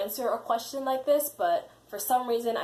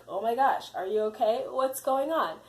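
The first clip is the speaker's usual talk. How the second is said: higher-pitched, retold worried questions; concerned alarm; 4 semitones higher, 3 dB louder than usual. Interviewers to candidate who started to cry, imitated concern. Interviewers react to her crying.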